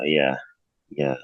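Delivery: talking while eating chips; crunching chips. Real, not acted. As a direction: mouth full of chips. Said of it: "sorry, I'm eating chips".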